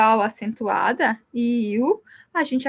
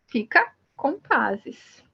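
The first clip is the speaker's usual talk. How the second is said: slow demo; much slower than usual. Shown as a demonstration. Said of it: "tem acento na última sílaba".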